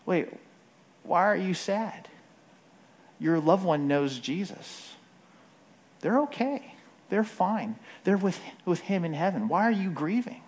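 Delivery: mock well-meaning comforter, lightly incredulous; gently baffled, imitating unhelpful sympathy; well-meaning but cringy. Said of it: "If that sounds cringy to you".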